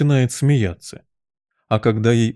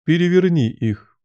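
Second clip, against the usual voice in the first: higher-pitched, irritated royal order; cross command; 7 semitones higher than usual. A narrator's reading. Queen ordering the Knave, crossly. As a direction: order it with a touch of anger. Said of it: "Королева сердито отвернулась от него и приказала".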